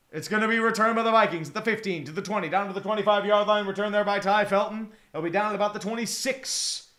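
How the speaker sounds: running football commentary; live play-by-play. Real, not acted. Streamer calling a Vikings return for viewers, play-by-play. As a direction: call the return and the tackle as they happen.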